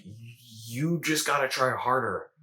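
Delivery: slow, drawn-out inner critic; lightly voiced stern nag, words stretched slowly; shame voice. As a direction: press it slowly, like a critic in the head. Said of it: "And the shame voice is like".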